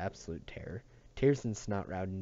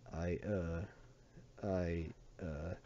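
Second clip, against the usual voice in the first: quiet, faltering stammer; frightened stammer; 3 semitones lower, 7 dB quieter, much slower than usual. Acted. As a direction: stammer out in terror. Terrified boy stammering.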